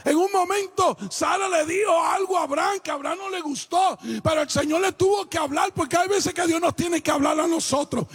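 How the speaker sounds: forceful, projected pulpit delivery; preaching. Acted. Preacher tells husbands to respect a wife's right to speak, preaching. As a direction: preach it in long ringing phrases.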